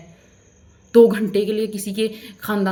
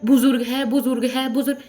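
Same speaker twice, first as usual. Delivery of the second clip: mocking repetition; 2 semitones higher than usual. Mocking repeated appeal to elderliness.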